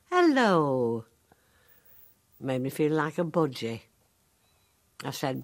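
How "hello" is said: a second hello, louder and odder; the son repeats hello to make her answer; mock hello. Son pestering his mother, a louder sing-song hello. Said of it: "he starts on the hello game again".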